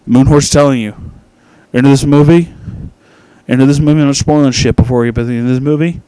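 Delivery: loud, emphatic, stumbling over repeats; urgent insistence. Acted. Reviewer pleading with listeners to believe the fedora detail, loudly insistent. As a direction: demand their attention at full voice.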